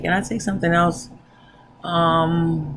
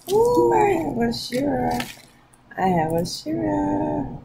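excited; 9 semitones higher than usual. Real, not acted. Excited about the product.

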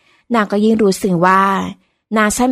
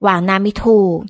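ordinary delivery

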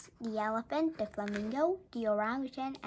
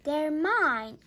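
posh flamingo voice; 5 semitones higher, 9 dB louder than usual. Acted. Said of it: "said the flamingo".

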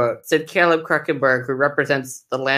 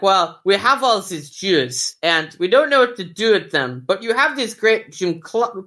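put-on German accent; 5 semitones higher than usual. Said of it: "a half-hearted attempt at a German accent".

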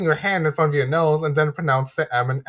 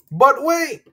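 surprised; 10 semitones higher, 4 dB louder than usual. Acted. Sudden objection in lesson.

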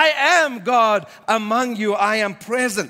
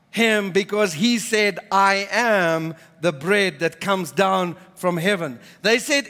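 measured Bible reading to the congregation; scripture reading; 2 semitones lower than usual. Acted. Pastor reading John to the congregation, measured reading. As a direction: read the gospel passage with steady weight. Reads scripture passage aloud.

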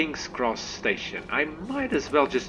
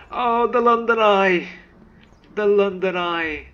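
high, loud cry of delight at a landmark; excited exclamation; 9 semitones higher, 6 dB louder than usual. Real, not acted. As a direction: call out the sight, thrilled. Spots landmark in game.

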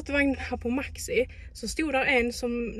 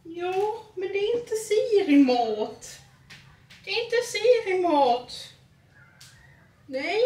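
higher, slow scolding of the cat; 8 semitones higher, slower than usual. Real, not acted. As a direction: tell the cat off in a high voice. Scolds cat named Siri. (säger till katten Siri med hög ljus röst)

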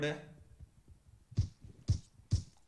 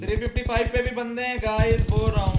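loud, higher, insistent repeat; exasperated shouted warning; 4 semitones higher, 8 dB louder than usual. Real, not acted. Player re-warning inattentive teammates about enemies, exasperated shout. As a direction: shout it so the squad finally listens.

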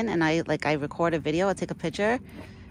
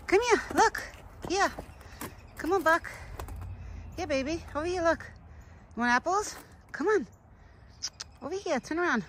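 high, carrying call to the deer; calling from far away; 9 semitones higher, 4 dB quieter than usual. Real, not acted. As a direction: call him over from across the yard.

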